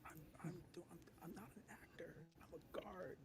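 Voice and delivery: hushed whisper back. Acted. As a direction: whisper it nervously.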